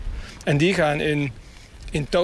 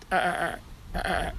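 imitated gull laughter; 2 semitones higher, 6 dB quieter than usual. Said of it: "zo'n lacherig geluidje".

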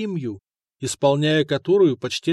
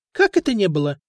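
astonished question; 5 semitones higher, faster than usual. A narrator's reading. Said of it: "изумился нотарий".

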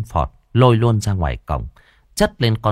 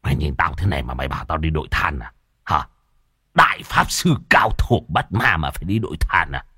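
indignant; 5 semitones lower than usual. Acted. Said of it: "Môn Phọt trợn mắt".

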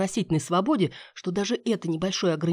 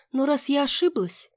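fake disappointment; 10 semitones higher than usual. A narrator's reading. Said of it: "деланно расстроилась я".

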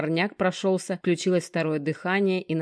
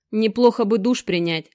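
perking up; 4 semitones higher, 5 dB louder than usual. Acted. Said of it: "встрепенулся Женёк".

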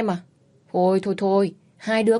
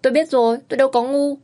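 hasty reply; 6 semitones higher, 4 dB louder than usual. A narrator's reading. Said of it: "vội vàng đáp".

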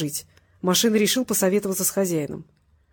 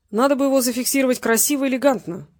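mildly concerned, raised pitch; preoccupied; 5 semitones higher than usual. A narrator's reading. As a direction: fuss over it a little. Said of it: "озабоченно произнёс Петренко". (слегка озабоченно)

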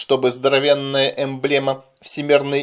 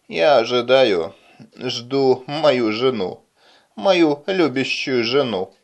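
в дурмане; slower than usual. Acted. Одурманенный человек говорит бессвязно.

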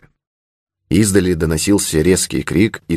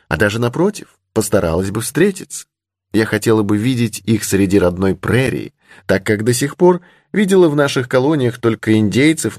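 put-on higher-pitched young heroine; lightly voiced young lady; 4 semitones higher than usual. Heroine boasting she would seek out Indians, lightly voiced young lady. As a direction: lightly raise the voice for a spirited girl.

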